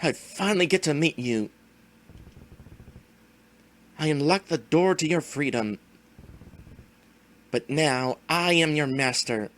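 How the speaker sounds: lightly voiced gloating villain; slow theatrical villain menace. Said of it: "let the villain monologue".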